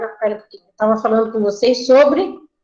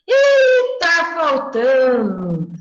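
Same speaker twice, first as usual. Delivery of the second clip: high surprised "Ih"; surprised child; 3 semitones higher, much slower than usual. Retold or imitated. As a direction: squeak out the surprise like a kid. Child reacting in class. (criança surpresa, voz bem aguda)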